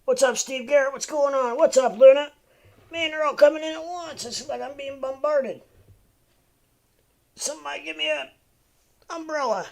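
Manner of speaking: swamped by arrivals, greet them all with a burst of energy; excited greetings. Real, not acted. Streamer greeting a rush of new chatters, loud and excited. Greeting flood of chat viewers.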